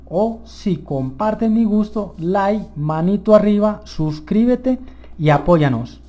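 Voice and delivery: high, loud, drawn-out plea; rally the audience with real excitement; excited. Real, not acted. Player asking viewers to like and subscribe, excited. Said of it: "o me emociono mucho".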